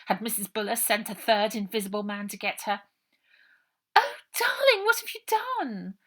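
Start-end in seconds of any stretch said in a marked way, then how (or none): 3.9-6.0 high, loud posh lady's fuss; kind and posh. A narrator's reading. Posh lady fussing over the trapped girl, high and kind. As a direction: coo over her like a fussing aunt. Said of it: "The voice behind was kind and posh".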